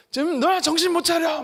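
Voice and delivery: mock dressing-down; rebuking. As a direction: tell them off like a child. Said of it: "이렇게 꾸짖었다라는 거죠".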